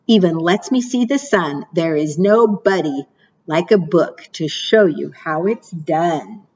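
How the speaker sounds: lilting storybook read-aloud; sing-song picture book reading; reading to children. Acted. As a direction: read the rhymes like storytime for little ones. Reads rhyming picture book aloud.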